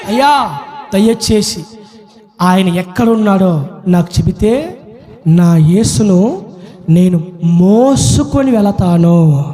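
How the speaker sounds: pleading Mary. Acted. Acts Mary pleading low.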